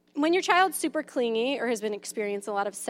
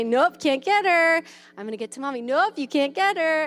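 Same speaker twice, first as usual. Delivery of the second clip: mock teasing; 4 semitones higher, 3 dB louder than usual. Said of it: "you pull 'em back and say".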